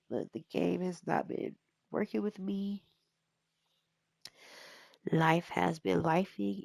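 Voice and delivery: blocked nose, stuffy voice. Real, not acted. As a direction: talk through a stuffy nose. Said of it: "If you can't hear it in my voice, I am currently stuffy".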